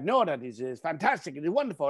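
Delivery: a bored Italian curator, lightly put-on accent. Curator brushing off the host, in a mild mock Italian accent. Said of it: "Apologize about the accent".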